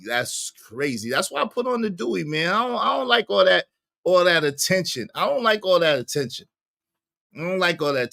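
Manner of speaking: ordinary delivery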